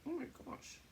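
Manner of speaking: "Oh my gosh" whispered high, no voice. Real, not acted. Exclaims, then repeats whispered.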